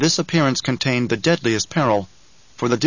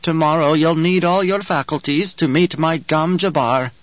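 put-on ominous old crone; 4 semitones higher than usual. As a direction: warn him like an ominous old witch. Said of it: "Her voice wheezed and twanged".

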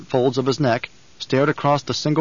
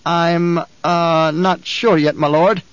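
nervous guard captain; 4 semitones higher, 4 dB louder, slower than usual. Acted. Captain hedging.

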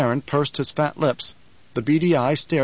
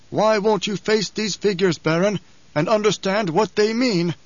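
Hawat; 6 semitones higher than usual. A narrator's reading. Hawat questioning the Baron about troop losses, measured. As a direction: press the question carefully.

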